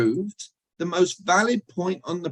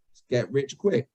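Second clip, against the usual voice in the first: what is really heard. Shown as a demonstration. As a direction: drop back down, a matter-of-fact undercut. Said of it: "they're hearing".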